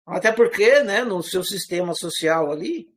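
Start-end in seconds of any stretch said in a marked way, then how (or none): none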